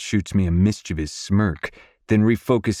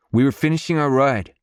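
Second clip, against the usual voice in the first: put-on higher-pitched boy's voice; young son; 7 semitones higher, 3 dB louder than usual. A narrator's reading. Wilder explaining himself to his father, young son. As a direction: answer back as a young lad.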